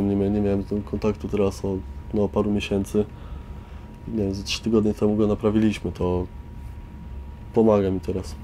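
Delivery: normal talking voice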